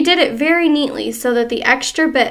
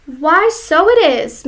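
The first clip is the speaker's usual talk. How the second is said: lightly voiced old wife; 5 semitones higher, 5 dB louder than usual. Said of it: "Missus Twit said".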